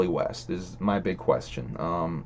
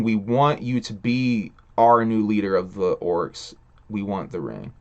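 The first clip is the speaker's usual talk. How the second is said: clear reread. Shown as a demonstration. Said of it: "I think he's saying".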